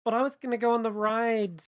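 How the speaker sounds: high-pitched, protesting character voice; acted high voice, hesitating over an offer; April, reluctant. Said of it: "she's like".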